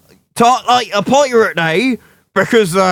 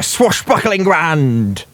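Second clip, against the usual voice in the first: pirate voice; 4 semitones lower, much slower than usual. Pretend. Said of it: "I stopped talking like a pirate".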